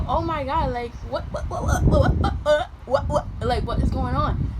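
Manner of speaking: bewildered rapid-fire; mock panic. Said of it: "I'm like".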